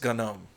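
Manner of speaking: GNOME said "guh-NOME", G pronounced; hard G opening gnome; gnome with sounded G. Retold or imitated. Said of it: "I cannot bring myself to call this".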